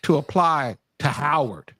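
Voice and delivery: slow, drawn-out mock outrage; mock indignation. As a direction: spell out the affront slowly, pausing between phrases. Acts out Howard's rejection letter.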